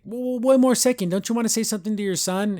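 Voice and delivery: high-pitched, hurried interjection; mock protest. Titan stops Luz before she leaves, high mock protest. Acting a character halting her.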